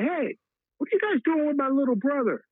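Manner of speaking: imitating Bob Wilson. Star player confronts campus police.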